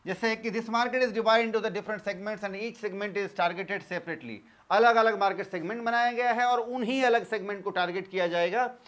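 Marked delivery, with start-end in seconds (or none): 0.5-4.3 very slow, evenly spaced words for note-taking; teacher dictating notes word by word; slow dictation. Acted. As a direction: read it out slowly so students can write. Reads English definition as dictation.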